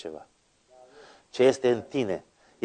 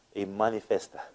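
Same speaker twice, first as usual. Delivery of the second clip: usual speaking voice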